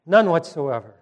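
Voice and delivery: a loud emphatic No, then condemnation; shouting no. Retold or imitated. Preacher voicing Paul's shout, loud emphatic no. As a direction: proclaim it with a shout. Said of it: "you can almost hear him shout".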